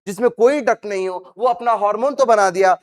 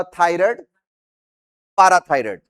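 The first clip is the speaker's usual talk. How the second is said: call-and-repeat recitation; 4 semitones lower than usual. Shown as a demonstration. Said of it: "बोलो मेरे साथ".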